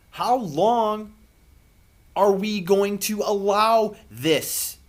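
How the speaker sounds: rising from pleading to a loud, high cry; real emotion swelling into a shout; getting emotional. Real, not acted. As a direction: build from slow and pleading to shouting how long. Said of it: "Now I'm getting emotional".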